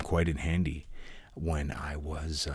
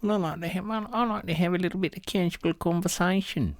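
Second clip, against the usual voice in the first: much higher, fast squeaky falsetto; silly falsetto; 14 semitones higher, faster than usual. Pretend. Goofing on the catchphrase in a squeaky falsetto.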